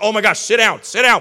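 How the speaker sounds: excited mock reply. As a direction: gush like a thrilled Bible nerd. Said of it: "I'll be like".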